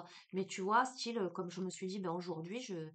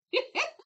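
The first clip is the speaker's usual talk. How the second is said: laugh; 9 dB louder than usual. Real, not acted. Laughs at own accent.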